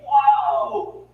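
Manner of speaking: high-pitched amazed wow; awed wow. Acted. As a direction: gasp a wow like a thrilled kid. Imagining child receiving a dollar bill.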